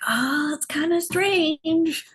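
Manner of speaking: high, slow breathy whisper; hesitant whisper. Retold or imitated. To the elder, a timid high whisper. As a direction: confess it timidly under the breath. Hesitant to share her vision.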